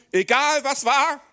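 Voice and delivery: slow, high, loud reassurance; emphatic encouragement. Acted. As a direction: lift them up, hold every word.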